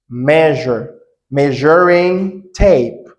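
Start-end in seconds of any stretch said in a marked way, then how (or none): 1.3-3.1 Measuring tape spoken slowly, each syllable clear; teacher modelling Measuring tape slowly; slow model phrase. Shown as a demonstration. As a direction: pronounce Measuring tape slowly for students to copy. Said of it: "Repeat again".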